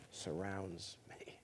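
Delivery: breathy whisper, slow and intimate. Real, not acted. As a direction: whisper it like a secret prayer. Intimate confession of faith.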